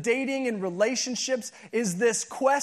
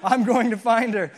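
mock-bold vow, louder at the end; a lightly voiced guy psyching himself up; playful macho resolve; determined dude; 3 dB louder than usual. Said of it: "you're going".

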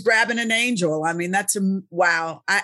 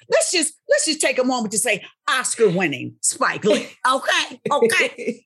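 hype-man; 3 semitones higher than usual. Real, not acted. Hyping up Spike Lee.

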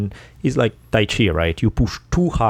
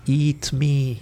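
higher, playful food voice; talking pad thai; 5 semitones higher than usual. Pretend. Plate of pad thai luring hungry talkers, high mock call. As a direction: call temptingly as a plate of noodles. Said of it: "the voice of a plate of pad thai".

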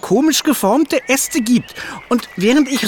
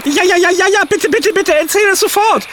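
eager begging; 6 semitones higher than usual. Acted. Hugo begs to hear the news.

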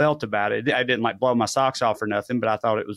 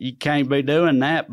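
laughing; 3 semitones higher than usual. Real, not acted. Laughing at the letter.

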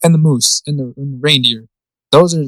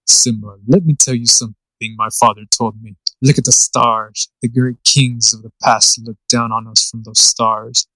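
a hint of a grave king speaking to his son, slowed down; James Earl Jones; 4 semitones lower than usual. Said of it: "James Earl Jones".

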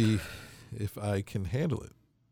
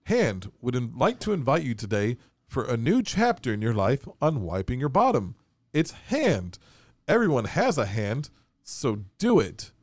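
upbeat sponsor read, a bit louder; 3 dB louder than usual. Pretend. Co-host reading Hand's sponsor copy as a cheesy ad. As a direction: sell it like a radio ad. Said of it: "I have some copy here from Hand".

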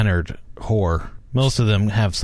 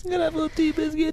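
posh tea voice; 5 dB quieter, much faster than usual. Pretend. Mock posh tea talk.

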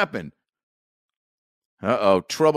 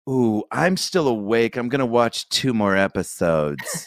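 sneaky partner; slower than usual. Retold or imitated. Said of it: "somebody will inevitably go".

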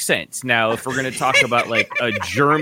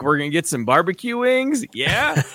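put-on French-accented Giannis stand-in, higher pitched; imitated French accent; 5 semitones higher than usual. Podcaster retells Giannis's question about wings, imitated French accent. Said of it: "you doing the accent".

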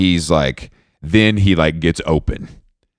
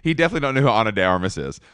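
fast, softer words through laughter; laughing; 3 semitones higher, 6 dB quieter, much faster than usual. Real, not acted. Laughing as he mocks the cabbie to his cohost. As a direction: giggles the line out quickly.

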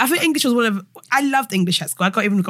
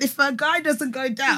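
laughing; 3 semitones higher, 3 dB quieter, slower than usual. Real, not acted. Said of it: "I thought you said".

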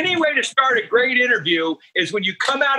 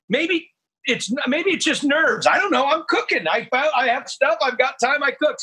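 retold own reply; 5 semitones higher than usual. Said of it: "I said".

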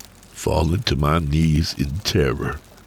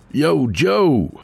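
put-on lightly raised, coaxing father's voice to a sleeping boy; gentle wake-up call; 12 semitones higher than usual. Father gently wakes his son.

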